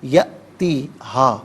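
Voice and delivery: یأتی slow with a sharp catch on the hamza; jerked hamza. Shown as a demonstration. Teacher demonstrates the jerk on یأتی, slow and clear. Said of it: "جھٹکے کے ساتھ پڑھا جائے".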